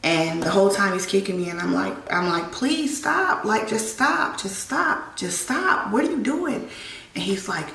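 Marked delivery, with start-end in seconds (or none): 2.5-6.7 desperate pleading. Retold or imitated. Begging while being kicked.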